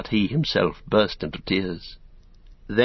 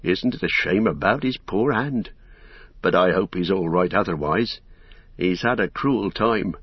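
lightly voiced rustic servant, worried; a touch of homely concern for his master; concerned Sam; 2 semitones lower than usual.

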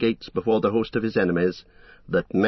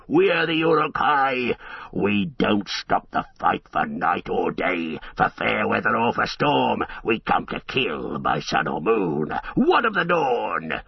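boasting orcs. Acted. Uruk-hai boast they fight by sun or moon, menacing. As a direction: threaten with swagger.

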